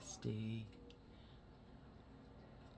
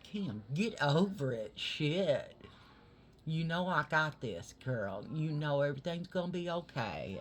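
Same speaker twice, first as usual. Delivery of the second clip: loud reassurance; 3 semitones higher, 5 dB louder than usual. Retold or imitated. Retelling reassurance to panicking Kim.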